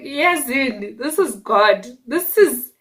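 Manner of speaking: slow booming mock God voice; a hammed-up divine voice, slow and loud. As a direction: play God, solemn and loud. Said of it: "Thato being Thato".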